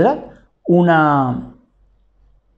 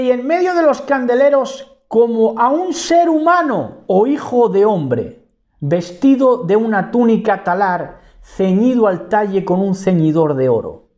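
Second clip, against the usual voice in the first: raised, declaimed scripture reading; lectura de las Escrituras; 4 semitones higher than usual. Acted. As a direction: read the verse out high and solemn, settling toward the end. Reads scripture aloud to listeners. (lectura bíblica declamada, en tono elevado)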